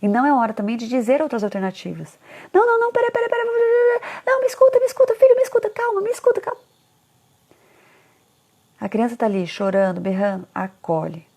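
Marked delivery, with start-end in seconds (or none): 2.5-6.6 very high, loud, desperate mock plea; hammed-up parent begging a screaming child to listen; shrieking mock mom, far higher and louder; frantic pleading parent.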